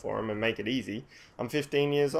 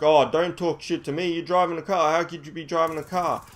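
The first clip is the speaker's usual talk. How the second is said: higher-pitched, argumentative retort; dismissive officer; 5 semitones higher, 3 dB louder than usual. Retold or imitated. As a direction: imitate a cop refusing to believe it. Acts policeman rejecting his protest.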